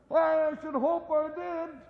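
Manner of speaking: high voice of a street lad; the cocky boy answering; boy's voice. Acted. The boy answering Scrooge, in a high lad's voice. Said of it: "replied the lad".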